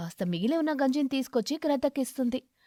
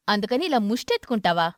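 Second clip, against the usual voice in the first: louder outraged retort; angry; 2 semitones lower, 5 dB louder than usual. Acted. Crow mocking his wife's excuse in anger. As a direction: throw her word back at her, furious. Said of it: "కాకికి చాలా కోపం వచ్చి".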